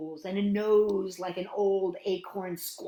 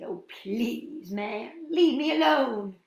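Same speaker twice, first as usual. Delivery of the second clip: plea rising to a loud, high cry; building storybook goat protest; pleading middle goat; 6 semitones higher, 6 dB louder, slower than usual. A narrator's reading. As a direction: start reluctant, then wail to be left alone.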